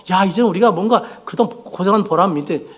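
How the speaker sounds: imitated disciples, mildly excited; giddy anticipation. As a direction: voice their hopes with some lift. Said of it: "막 들떠 있었거든요".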